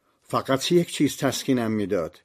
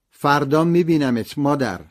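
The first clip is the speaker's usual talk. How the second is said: raised, higher-pitched call to mother; narrated shout; 5 semitones higher, 6 dB louder than usual. A narrator's reading. Son calls to mother being led away by nurses, shouting. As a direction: call out louder, hiding the lump in the throat. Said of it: "داد زدم".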